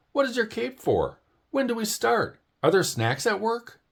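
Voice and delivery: high, bubbly little bird chattering fast; an overexcited fan pestering her hero; eager Early Bird. Acted. Early Bird pestering sleepy Owl, high and eager.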